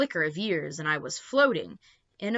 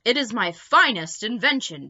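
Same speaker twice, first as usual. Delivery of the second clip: proud professor; 4 semitones higher, 7 dB louder than usual. A narrator's reading. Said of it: "began Professor Steg proudly".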